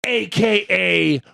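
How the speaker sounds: slow, drawn-out ring intro; wrestling announcer. Acted. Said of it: "I like when he does that".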